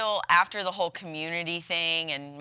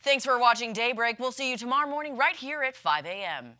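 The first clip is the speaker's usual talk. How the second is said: news anchor voice; 5 semitones higher than usual. Shown as a demonstration. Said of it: "Oh, that was good".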